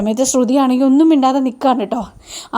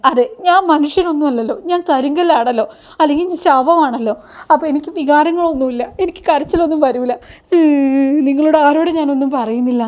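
mock-aggrieved, slightly raised voice; hurt sarcasm; 2 semitones higher than usual. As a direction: act out a wounded mother's sarcastic retort. Hurt mother's sarcastic retort while crying. (പരിഭവം കലർന്ന പരിഹാസം അഭിനയിച്ച്)

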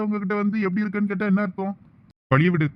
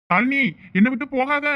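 desperate pleading; 8 semitones higher than usual. Acted. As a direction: beg her not to go, calling after her. Begging wife not to leave.

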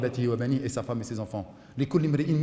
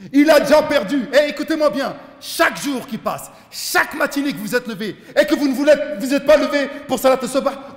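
loud preaching; 11 semitones higher, 9 dB louder than usual. Acted. Preacher berating late risers.

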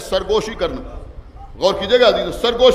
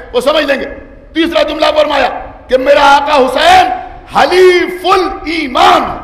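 preaching declamation; 5 semitones higher, 7 dB louder than usual. Acted. Preacher to majlis naming Husain's titles, loud declamation. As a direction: proclaim each title to the hall.

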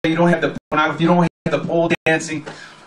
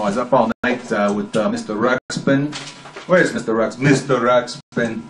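a hint of a Russian accent; 3 semitones lower than usual. Radio host rambling about Mister Ruxpin, light Russian accent. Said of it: "I'm going into a Russian accent".

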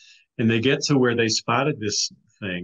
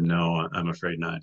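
mildly sad, lower-pitched retold reply; sad refusal; 4 semitones lower than usual. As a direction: gently imitate a man regretfully declining. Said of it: "he, he very sadly".

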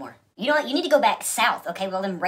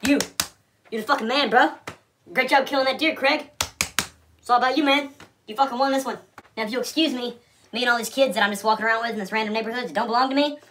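sarcastic mock praise; 4 semitones higher than usual.

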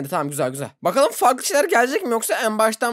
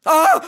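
short, loud, high yell; sudden scream of fright; startled scream; 9 semitones higher, 8 dB louder than usual. Real, not acted. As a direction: yelp loudly at a jump scare. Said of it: "Kötü bağırırım".

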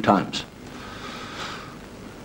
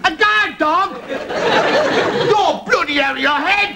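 scoffing laugh; much slower than usual. Retold or imitated. Brother scoffs at tiny dog.

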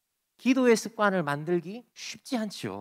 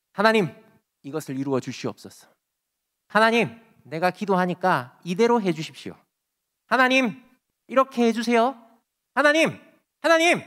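pleading, building to a loud cry of 하나님; fervent pleading prayer; 5 dB louder than usual. Retold or imitated. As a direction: beg God harder and harder until you cry out. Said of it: "이렇게 막 열심히 기도하다가". (점점 고조되어 외치는 간절한 기도)

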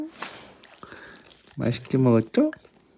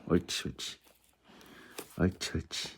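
whispered praise; 5 semitones lower, 10 dB quieter than usual. Real, not acted. Soft praise to dog.

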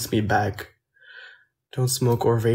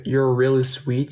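American accent. Real, not acted. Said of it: "sounds kind of American".

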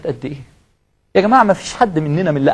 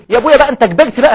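mock impatient son; 5 semitones higher, 5 dB louder, faster than usual. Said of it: "تقول له".

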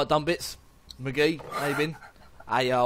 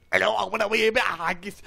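mock Scottish accent; 5 semitones higher, 3 dB louder, faster than usual. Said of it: "video of the accents".

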